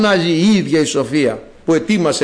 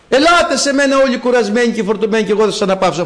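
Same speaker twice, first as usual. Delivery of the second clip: mildly raised proclaiming call; faster than usual. Acted. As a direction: call the crowd in. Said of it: "φωνάζει η σοφία". (κήρυγμα σαν κάλεσμα)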